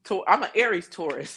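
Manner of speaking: normal talking voice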